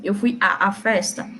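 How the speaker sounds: "a, a festa" with each A said apart; two separate As. Shown as a demonstration. Teacher showing the uncontracted form, both As separately voiced. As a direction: split the doubled "a, a" with a small break. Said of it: "Eu digo assim".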